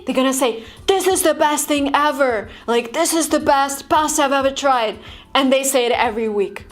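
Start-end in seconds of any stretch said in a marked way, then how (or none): 0.9-2.5 mildly gushing praise; exaggerated enthusiasm. Shown as a demonstration. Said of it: "exaggerate everything. If they like something". 2.9-5.0 mild gushing over food; exaggerated enthusiasm. Shown as a demonstration. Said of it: "exaggerate everything. If they like something".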